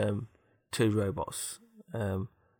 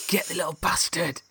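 angry shout; 7 semitones higher than usual. Acted. Robots turn on intruder.

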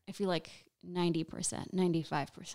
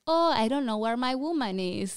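raised-pitch, put-on clueless spouse; lightly mocked husband; 4 semitones higher, 4 dB louder than usual. Comic imitating a husband whose woman is out, mock helplessness. Voices imagined husband left at home.

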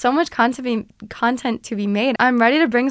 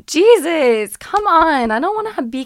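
exasperated outburst; 6 semitones higher, 6 dB louder than usual. Real, not acted. Frustrated at congested voice.

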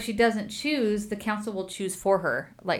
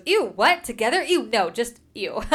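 disgusted; 3 semitones higher, 5 dB louder than usual. Retold or imitated. Rowan recoiling when asked if she and Davin are promised, disgusted. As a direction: recoil at the very idea, then brush it off.

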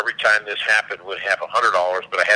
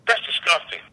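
higher-pitched mock disgust; 7 semitones higher than usual. Friend at a wedding hearing about the product, mildly disgusted. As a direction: lightly imitate an offended objection.

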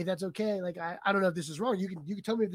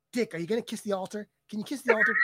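louder, rising insistence; retold prompting of someone hard of hearing; 3 semitones higher, 4 dB louder, faster than usual. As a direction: prod a colleague who can't hear, getting louder. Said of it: "talking to the Monsignor who can't hear".

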